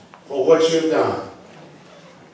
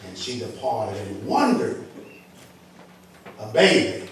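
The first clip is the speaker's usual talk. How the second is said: scripture reading, building. Acted. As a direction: start measured, gradually lift the scripture with force. Reads scripture, building in force.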